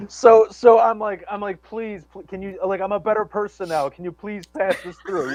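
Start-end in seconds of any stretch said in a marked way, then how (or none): 1.6-5.3 mock pleading. Retelling begging his old probation officer at the DMV, mock pleading. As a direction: plead sheepishly to be let off.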